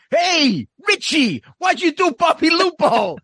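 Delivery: high-pitched mock fan call-out; imitating pestering fans. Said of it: "How many people go up to you and go".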